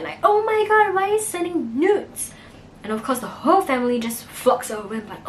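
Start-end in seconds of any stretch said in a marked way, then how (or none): 0.2-2.3 higher, louder shocked cry; mock scream. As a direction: retell her shocked scream, pitched up. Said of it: "Ellie screams out loud".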